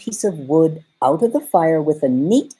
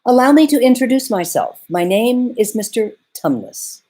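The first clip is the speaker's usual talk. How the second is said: much higher, louder flustered fawn; 7 semitones higher, 4 dB louder than usual. A narrator's reading. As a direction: fluster it out, high and quick.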